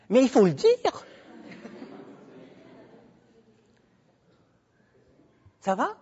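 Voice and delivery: booming test of the room's sound; mic test shout. Shown as a demonstration. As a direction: project hard to check he can be heard. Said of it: "si je gueule comme ça".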